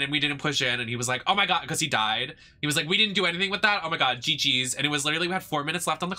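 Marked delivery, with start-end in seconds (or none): 1.3-1.7 mock exasperation, pitched up; mimicking mad teammate. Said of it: "was literally so fucking mad". 2.9-4.7 mock exasperated complaint, starting high; mimicking mad teammate. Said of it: "was literally so fucking mad".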